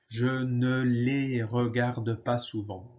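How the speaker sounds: slow and even, every syllable laid out; slow model repeat. Shown as a demonstration. Teacher to students, slow careful repeat. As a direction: say it slowly so students can copy. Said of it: "Alors, répétez".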